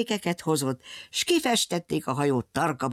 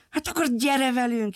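put-on higher bright little girl's call; 8 semitones higher than usual. Little girl invites the lion to come along, higher call. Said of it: "hívta a kislány".

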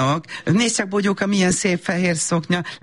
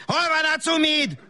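put-on baby talk; 10 semitones higher than usual. Mother cooing to toddler.

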